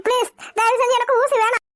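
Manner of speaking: mildly frightened pleading. Acted. Patient begging the nurse for no injection, frightened. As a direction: beg to be spared. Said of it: "ஏன் இப்படி பயப்படுறீங்க".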